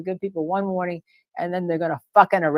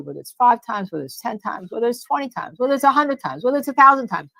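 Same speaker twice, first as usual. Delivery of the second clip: building to a shout; 6 semitones higher than usual. Real, not acted. Escalating list.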